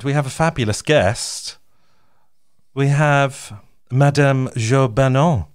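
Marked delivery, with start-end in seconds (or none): 2.7-5.5 put-on French accent. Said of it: "Can we do it in a French accent?".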